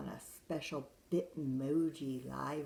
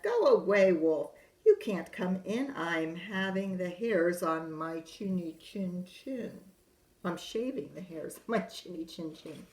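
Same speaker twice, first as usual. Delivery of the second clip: yelling back; 4 semitones higher, 8 dB louder than usual. Acted. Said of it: "He yelled back".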